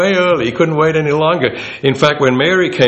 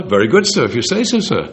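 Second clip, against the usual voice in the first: a hint of a deferential butler; just lean into the dutiful butler; faithful servant agreeing, a light butler touch; lightly voiced butler. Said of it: "Like the picture of the butler".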